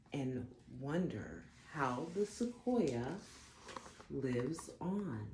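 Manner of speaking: gentle storybook read-aloud; unhurried storytime narration; reading to children. Acted. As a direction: read it like a bedtime picture book. Reads picture book aloud.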